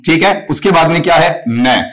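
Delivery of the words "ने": न alone as a short 'ne', lower; broken-up syllable. Shown as a demonstration. Teacher breaking the word for students, isolated syllable. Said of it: "इसका sound यहां से टूटेगा".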